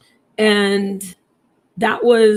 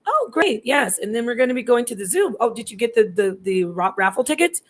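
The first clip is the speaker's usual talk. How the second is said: breezy chit-chat, acted out; upbeat small talk. Parent making small talk with another parent, upbeat. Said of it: "you're upbeat".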